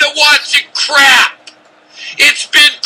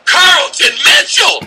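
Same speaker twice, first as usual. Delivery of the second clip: name yelled much higher in disbelief; exasperated shout; 6 semitones higher than usual. Real, not acted. Host shouting the receiver's name in exasperation. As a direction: blow up on the second time.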